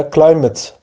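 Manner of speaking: کلایمت with a short "e" or schwa in the last syllable; alternative correct pronunciation. Shown as a demonstration. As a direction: say کلایمت as "KLAI-met", falling on the ending. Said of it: "ای کوتاه یا ا یا همون شوا".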